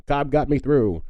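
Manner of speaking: imagined granddad. Pretend. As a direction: play a touch of loyal old granddad. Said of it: "imagine your granddad just being like".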